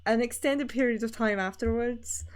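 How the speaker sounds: put-on Scottish accent; demonstrated Scottish accent. Shown as a demonstration. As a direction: talk as if stuck in a Scottish accent. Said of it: "completely stuck in this voice".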